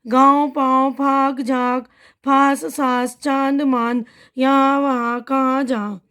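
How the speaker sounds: the same word list rattled off in quick pairs; fast reading. Shown as a demonstration. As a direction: speed through the list like a tongue-twister. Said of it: "मैं जल्दी जल्दी पढ़ रही हूँ". (जल्दी जल्दी पढ़ना)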